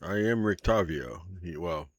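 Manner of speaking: put-on earnest, probing older man; steady, serious inquiry; lightly voiced old hunter. GM plays Van Richten confessing.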